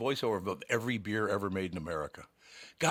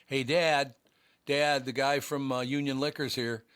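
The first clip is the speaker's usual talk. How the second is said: put-on kid son calling out; 6 semitones higher, 4 dB louder than usual. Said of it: "Tommy O'Brien would go".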